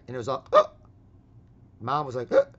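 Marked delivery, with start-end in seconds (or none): 0.5-0.7 short, high "oh" of shock; imitated startled gasp. Family reacts to being yelled at, mock gasp. 2.3-2.5 short, high "oh" of shock; imitated startled gasp. Family reacts to being yelled at, mock gasp.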